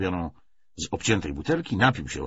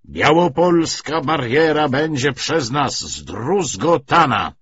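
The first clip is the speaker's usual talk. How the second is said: loud, slow, raised proclamation; pathos-laden orator; 8 semitones higher, 10 dB louder, slower than usual. Acted. Commissar vows to smash the barrier, grand emphatic oratory. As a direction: hammer out each word from the podium. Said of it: "podniósł rękę gestem patetycznym".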